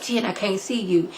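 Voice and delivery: softly acted-out quote; quiet imitation of a puzzled friend; hushed retold plea. Retells Khalil talking to Jen.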